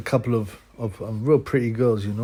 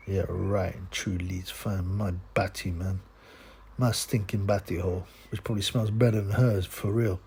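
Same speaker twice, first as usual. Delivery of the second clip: sarcastic mutter; 3 semitones lower, 5 dB quieter than usual. Real, not acted. Vlogger scoffing at her Leeds fan claim, soft low sarcastic mutter. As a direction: lower and softer, deadpan scorn.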